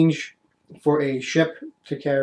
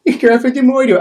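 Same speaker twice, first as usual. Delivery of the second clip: high, hammed-up English rapscallion; terrible English accent; 10 semitones higher, 9 dB louder than usual. Player mimicking the thug's taunts, terrible English accent. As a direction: do a bad Victorian English street rogue. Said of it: "that's a terrible accent".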